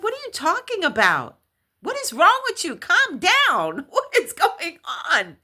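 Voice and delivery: high, loud, exasperated demand; agitated retold shout. Woman answering the hysterical caller, agitated high retold shout. Retold alarmed reply on phone.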